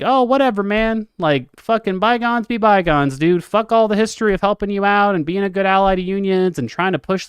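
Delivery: heated, sarcastic brush-off; mock dismissive. Streamer imagines Bernie angrily writing off the union, mock dismissive. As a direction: shrug it all off with irritated force.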